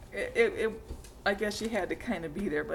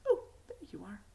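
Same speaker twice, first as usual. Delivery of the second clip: whisper; faster than usual. Real, not acted. Greeting the finished sock.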